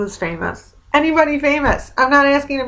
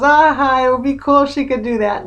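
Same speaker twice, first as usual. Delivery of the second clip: a light laugh breaking into the reply; laughing receptionist; 3 semitones higher, 4 dB louder than usual. Retold or imitated. Receptionist laughing at the healing question, imitated laugh. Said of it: "And she starts laughing".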